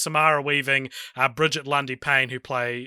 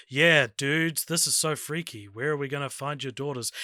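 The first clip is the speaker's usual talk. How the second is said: flat copycat echo, dropping softer and softer; deadpan android echo; 5 dB quieter than usual. Retold or imitated. Android copying the dudes to fit in, soft deadpan. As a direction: mimic the dudes quietly, fading out. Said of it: "Dennis Caleb McCoy wanders up and goes".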